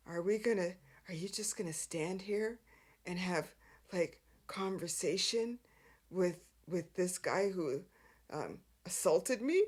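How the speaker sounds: low, soft, halting injured-man voice; dragging himself in. Retold or imitated. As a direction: imitate a hurt man weakly protesting. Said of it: "just dragging himself in".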